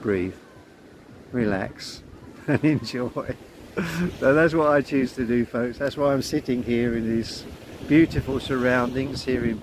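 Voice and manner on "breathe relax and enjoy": gentle mantra. Acted. Inner voice reminding the self, gently. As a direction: murmur it kindly to yourself.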